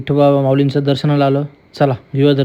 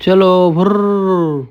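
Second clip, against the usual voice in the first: playful zoom-off sound; 4 semitones higher, much slower than usual. Pretend. Playfully zooming off on the bike.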